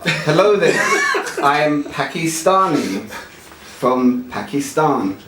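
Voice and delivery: slow, lightly voiced Indian accent; a hint of Indian accent, slowly. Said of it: "One more Indian".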